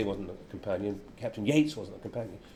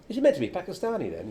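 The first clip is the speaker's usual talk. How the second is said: teasing laugh; 8 semitones higher, 3 dB louder than usual. Retold or imitated. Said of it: "if you're doing a Welsh accent, you say".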